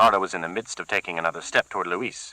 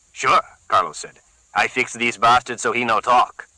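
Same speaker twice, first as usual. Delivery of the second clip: put-on higher, eager accented voice; a keen henchman keen to use the cleaver; Carlos, eager thug; 4 semitones higher, 4 dB louder than usual. Carlos offering his boss a fix, eager.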